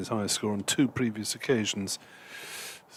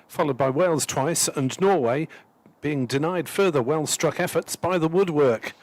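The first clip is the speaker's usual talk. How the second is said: lightly posh newspaper reading; slightly posh voice; 4 semitones higher than usual. Retold or imitated. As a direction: read it a touch upper-class. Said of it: "slightly posh voice".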